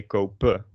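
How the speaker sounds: "kope" ending on a schwa, no n; "kope" with an open "-puh" ending; dropped final N. Shown as a demonstration. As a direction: leave the N off entirely in "kope". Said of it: "leave out the N entirely".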